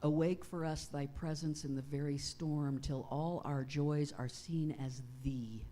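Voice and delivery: slow, measured prayer with long pauses; unhurried, solemn address to God; prayer reading. Acted. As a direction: read a prayer reverently, phrase by phrase. Reads one of MacLeod's prayers aloud.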